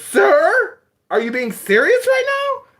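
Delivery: high, loud, slow prissy manager voice; hammed-up formal apology; imitating the manager. Mimicking the restaurant manager telling him his money is fake, high and prim. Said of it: "and he goes".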